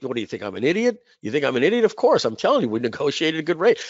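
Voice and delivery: retold cocksure comeback; confident insistence. Friend defending his negotiated rate, confident insistence. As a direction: insist as if it's obvious. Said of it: "he was so confident".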